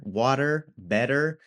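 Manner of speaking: "water, better" with tapped T, rising; soft tap. Shown as a demonstration. Teacher points out the sound to copy, tapped "water, better". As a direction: let the T in "water, better" become a light tap. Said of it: "that soft, curly R sound".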